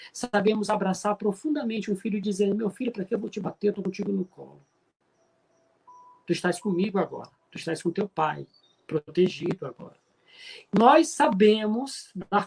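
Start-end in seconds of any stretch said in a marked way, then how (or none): 2.5-10.0 gentle reassurance. Acted. Father holding his son after losing him, tender reassurance.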